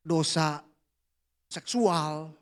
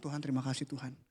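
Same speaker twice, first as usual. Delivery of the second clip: soft prayer; 5 semitones lower, 11 dB quieter, faster than usual. Retold or imitated. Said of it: "Aku ngomong".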